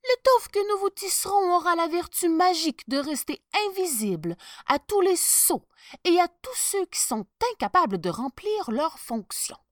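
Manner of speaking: cunning tailor explaining; sly tailor. Acted. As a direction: sell the lie with charm. Tailors pitch magic cloth.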